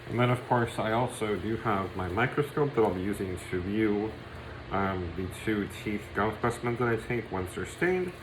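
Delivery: speaking through a face mask; muffled by face mask. Real, not acted. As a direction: talk muffled behind a mask. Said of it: "apologize if I sound muffled".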